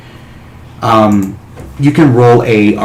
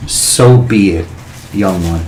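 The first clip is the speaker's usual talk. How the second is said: booming dragon voice. Acted. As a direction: grant the wish like an ancient dragon. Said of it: "with that booming voice".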